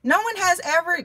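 high rising surprised what. Retold or imitated. Host on phone reacting in disbelief, high surprised. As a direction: pitch it way up in disbelief. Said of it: "And she said".

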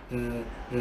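đọc "r" như chữ R tiếng Việt, rõ từng tiếng; phát âm mẫu "r" ngắn gọn, dứt khoát. Shown as a demonstration. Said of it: "phát âm giống chữ r". (thầy đọc mẫu âm "r" cho học sinh)

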